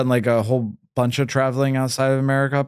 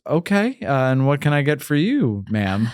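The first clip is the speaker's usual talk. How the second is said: put-on Irish accent; 2 semitones higher than usual. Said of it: "the waitress in an Irish accent goes".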